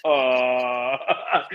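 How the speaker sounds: long drawn-out mock groan; dazed groan. Battered heckler after Tyson's punches, mock dazed groan. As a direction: imitate someone groggy after a beating. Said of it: "bloodied and battered".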